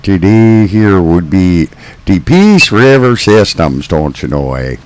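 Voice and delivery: mock folksy northern accent with eh; jokey northern drawl for the radio crowd; hammed-up northern accent. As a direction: lay the small-town northern accent on thick. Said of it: "that's how everybody sounds where I came from".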